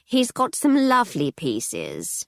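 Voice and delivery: slow, slimy salesman voice; oil it out like a sleazy dealer; oily dealer. Acted. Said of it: "said the oily antiques dealer".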